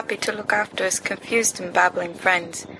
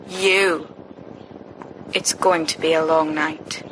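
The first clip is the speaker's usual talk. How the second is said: lazy stoned Sirius; 2 semitones lower, slower than usual. Acted. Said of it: "Sirius says".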